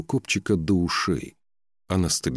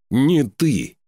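higher, louder jab; loud viking accusation; 8 semitones higher, 6 dB louder than usual. A narrator's reading. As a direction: shout it at her face. King pointing accusingly. (громкий обвиняющий выкрик)

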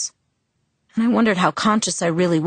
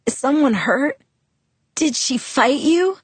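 voice jumping up; 8 semitones higher than usual. Acted. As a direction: let the voice leap up in alarm. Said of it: "My voice jumped up an octave".

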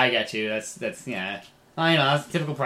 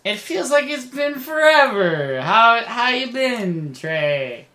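overeager; 11 semitones higher, 7 dB louder, much slower than usual. Acted. Eugene greets old friend eagerly.

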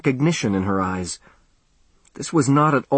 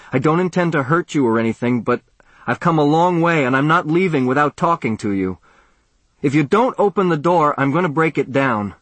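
threatening; 5 semitones higher than usual. Acted. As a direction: warn her he'll break the door down. Threatening to break the door.

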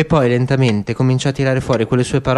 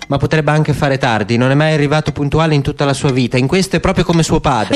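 lightly voiced older woman, quickening and higher; a hint of an old woman talking faster as she goes; Miriam's voice, rising; 4 semitones higher, 3 dB louder than usual. Old woman tells the father about his son, higher and quicker. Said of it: "rispose Miriam".

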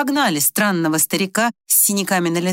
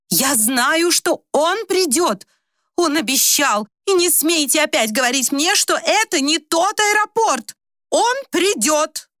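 high, slow, desperate insisting; cling to the belief he will come; agitated insistence; 9 semitones higher, slower than usual. Acted. Old woman insisting her beloved will come, agitated.

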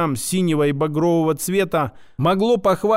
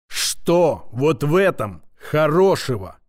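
roar; slower than usual. Acted. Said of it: "Рявкнув так, что аж стёкла задрожали".

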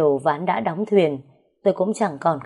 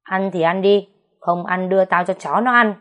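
shrieking at her; 4 dB louder than usual. Acted. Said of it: "tiếng rít lên của mợ cả".

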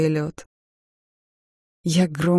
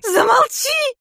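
much higher, louder shout through tears; crying shout; 6 dB louder, slower than usual. Acted. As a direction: scream it through sobs. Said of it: "выкрикнула я".

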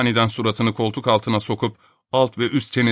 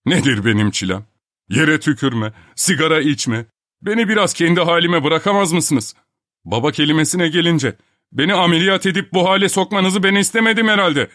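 mock hysterical rant, only mildly raised; hysterical complaint; 5 semitones higher than usual. The man complaining to the professor about the operation, mildly hysterical. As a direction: whine and protest at the professor. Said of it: "histerik bir şekilde bağırmaya başlamıştı".

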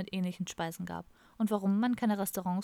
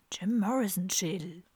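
breathy full whisper, no voice; soft whisper. A narrator's reading. Kalle whispering the secret to Don during the ritual, whispered. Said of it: "flüsterte Kalle leise".

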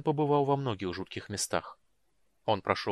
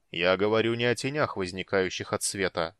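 deep booming voice. Acted. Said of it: "глубоким, гулким голосом".

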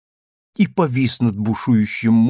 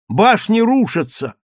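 frightened cry; 8 semitones higher, 4 dB louder than usual. A narrator's reading. Daughter warns of collapsing tower.

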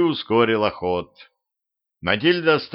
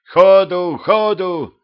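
higher, louder "ходу, ходу"; frantic urging; 9 semitones higher, 7 dB louder, much slower than usual. Acted. Petrovich urging the grandpa to drive off, frantic. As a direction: hurry the old man on in panic. Fleeing Matilda.

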